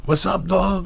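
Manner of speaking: high, loud, playful hello; flirty greeting. Retold or imitated. Chatting up the receptionist, high playful greeting. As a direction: toss it up bright like a come-on.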